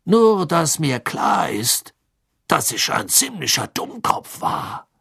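slow, embarrassed smiling voice; sheepish grin in the voice. A narrator's reading. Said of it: "sagte Bagman verlegen lächelnd". (verlegen lächelnd)

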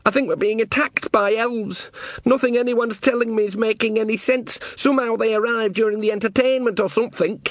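put-on high, anxious young man on the verge of tears; almost in tears. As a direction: voice tight with panic. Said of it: "who was almost in tears".

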